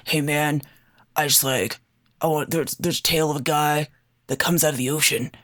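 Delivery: low, lightly voiced macho swagger; puffed-up tough guy. Batman approaches Aquaman about an ocean tale, lightly voiced puffed-up tough guy. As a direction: chest out, drop the pitch a touch. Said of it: "puffed up chests and, like, bristling their feathers".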